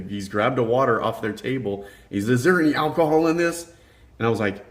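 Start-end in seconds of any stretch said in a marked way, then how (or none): 2.3-3.7 loud, higher-pitched retold question; mimicked demand. Guy with grabbed water questions the worker, mimicked demand. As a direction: imitate an agitated customer demanding an answer.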